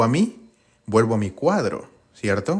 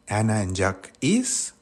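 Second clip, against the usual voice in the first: slow trial phrase; slower than usual. Shown as a demonstration. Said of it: "Será el is".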